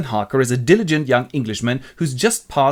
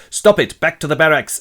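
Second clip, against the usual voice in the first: raised, sharp order at the start; commanding Count; 3 semitones higher, 5 dB louder than usual. Acted. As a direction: order them off like a master. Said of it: "steps in and goes".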